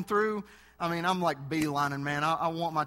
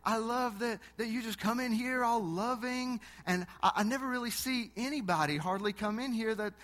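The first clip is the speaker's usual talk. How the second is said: cashier voice; 4 semitones higher than usual. Retold or imitated. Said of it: "He said".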